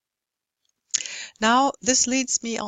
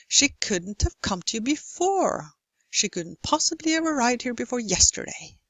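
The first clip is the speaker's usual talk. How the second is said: beats on "couldn't", "come", "before", small words hurried between; squeezed unstressed syllables; 3 semitones higher than usual. Shown as a demonstration. Lecturer gives longer rhythm examples, "couldn't" and "yesterday" on the beat. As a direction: hurry "possibly have arrived here" to keep the rhythm up to "yesterday". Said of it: "speed up the unstressed ones".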